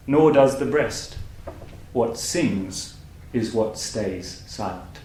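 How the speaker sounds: slow, measured poem recital with long pauses; poetry reading. Acted. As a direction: read the poem slowly, setting each line apart. Reads a poem aloud.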